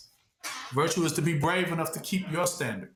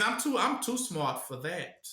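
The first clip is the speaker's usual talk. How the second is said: smug devil; 4 dB quieter than usual. Retold or imitated. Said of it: "that's how the devil thinks".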